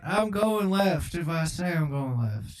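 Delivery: stubborn doddering president; comic presidential impersonation; Joe Biden. Acted. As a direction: insist like a muddled elderly politician. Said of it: "I'm just Joe Biden on the track".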